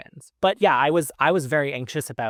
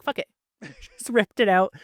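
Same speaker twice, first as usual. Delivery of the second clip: laughing defiance; 7 semitones higher, 4 dB louder than usual. Retold or imitated. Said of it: "I was just like".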